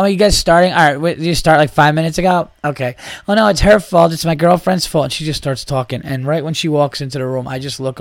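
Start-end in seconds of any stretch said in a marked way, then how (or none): 0.0-5.0 put-on high, loud, gushing party-girl voice; loud drunk woman. Late bar woman bursting into the comedy room, loud and high. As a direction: barge in apologizing loudly, higher and louder. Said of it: "She was loud".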